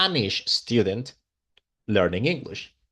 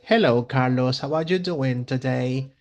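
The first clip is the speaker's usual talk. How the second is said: lightly imitated Italian accent in English; Italian-accented English, vowels tacked onto word endings; imitating Italian student. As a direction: mimic an Italian learner's English. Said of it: "this is the way she talks".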